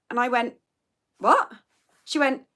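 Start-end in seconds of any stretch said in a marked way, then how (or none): 1.2-1.5 higher, sharp "What?"; incredulous what. Retold or imitated. Retelling the email chat, incredulous. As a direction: recreate your shock at the colleague. Retold baffled reply to colleague.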